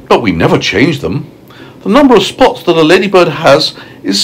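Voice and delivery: proud ladybird explaining herself; a hint of a self-satisfied lady, pitch climbing; storybook ladybird, mildly pleased with herself; lightly voiced ladybird.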